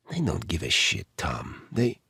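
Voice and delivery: put-on bitter and torn, in a light Eastern European accent. A narrator's reading. Torn Edita.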